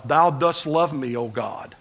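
slow, solemn old-English prayer voice, lightly put on; a hint of churchy King James reverence; mock King James prayer voice. Preacher mocking how people pray: slow solemn King James tone. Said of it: "revert to a King James type voice".

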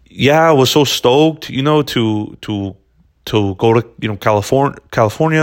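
halting mock Brazilian accent, reaching for SoCal surfer talk; attempted Brazilian skater accent. Podcaster imitating Brazilian pro skateboarders in interviews, attempted accent. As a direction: try a Brazilian skateboarder's accent, faltering midway. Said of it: "struggling with their accent".

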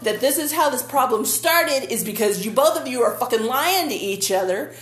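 half-joking rant at the TV characters; mock yelling at the TV. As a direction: tell them off through the screen. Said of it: "kinda yelling at the T V".

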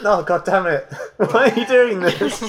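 high, loud, laughing groan; laughing exasperation. Real, not acted. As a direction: laugh through mock despair. GM laughs at sound effects.

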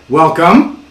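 staccato, each word separate; one word at a time. Shown as a demonstration. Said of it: "One word at a time".

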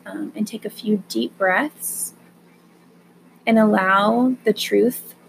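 calm them down gently and unhurried; guided meditation. Acted. Leads a breathing meditation.

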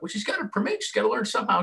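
lightly voiced defensive dad. Dad answering wife.

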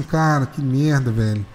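very slow, low, drawn-out groan of words; a touch of disgust, low and slow; mock disgust. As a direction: let it sink in, slowly. Reacting to vomit on bus.

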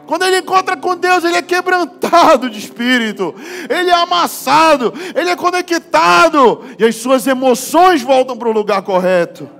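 fiery preaching. Acted. Pastor preaches to the congregation about men crying, full force. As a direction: preach it out to the whole church.

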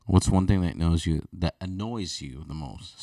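talking between sips of a drink; asking mid-sip of a drink; drinking while talking. Real, not acted. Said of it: "Sorry, I'm drinking a little bit".

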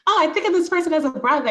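high, loud, breezy brush-off with a laugh; girl next door act. Retold or imitated. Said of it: "put on my girl next door costume".

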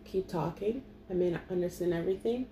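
soft, hushed, entranced murmur; dreamy quiet. Retold or imitated. Smitten listener murmurs softly to the accented speaker. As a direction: murmur it like you're under a spell. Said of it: "I'm gonna be like".

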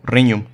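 riñum with a Spanish ñ sound; Latin GN as ñ. Shown as a demonstration. Showing Latin GN as Spanish ñ. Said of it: "suena como la ñ española".

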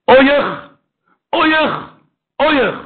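high, loud wailing oy; lamenting oy cry. Acted. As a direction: wail the lament aloud. Preacher crying out lament.

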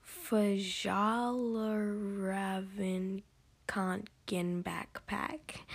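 very slow, drawn-out attempt at Fjallraven Kanken; unsure pronunciation. Real, not acted. Vlogger apologizing in advance for butchering a brand name, halting pronunciation. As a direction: sound out an unfamiliar brand name, stretching each part. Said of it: "I don't know how to say this".

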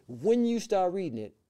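high, slow, stretched proclamation; emphatic quoted pronouncement. Retold or imitated. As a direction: draw it out high, like a prophecy. Re-voices grandmother's prophetic words.

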